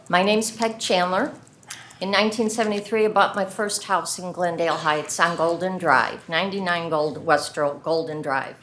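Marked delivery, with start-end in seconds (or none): 2.0-8.6 talking with gum in mouth; words around a wad of gum; chewing gum. Real, not acted. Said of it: "I've got gum in my mouth".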